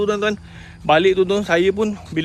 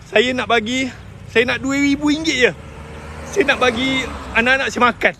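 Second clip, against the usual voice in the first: higher-pitched, tearful plea; sad, choked up; 5 semitones higher than usual. Real, not acted. Recalling asking Puan Kartika for money to feed children, tearful. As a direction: plead on the edge of tears.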